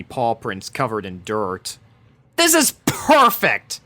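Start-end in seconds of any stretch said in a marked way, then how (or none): 2.4-3.8 sarcastic, much higher, loud slow rant; furious sarcasm at the situation. A narrator's reading. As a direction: spit it out bitterly. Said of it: "she ranted".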